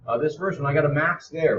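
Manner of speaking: mouth full. Real, not acted. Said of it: "I'm eating an apple".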